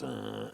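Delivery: low hummed cello groan; imitated cello swell. Shown as a demonstration. Showing how music exaggerates, low cello hum. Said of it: "cello goes".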